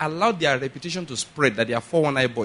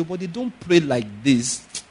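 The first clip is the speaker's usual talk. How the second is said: slow instruction; slower than usual. Retold or imitated. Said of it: "instructed him".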